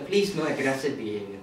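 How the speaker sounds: put-on pacify an irate caller in an Indian accent; meek Indian-accented agent. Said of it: "switch from Indian to English accent".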